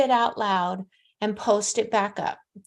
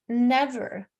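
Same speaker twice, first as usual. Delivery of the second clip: breathy hushed whisper of "Never.". Real, not acted. A psychic hushes her denial of harsh spirits to a whisper. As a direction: let "Never." fall to a firm whisper.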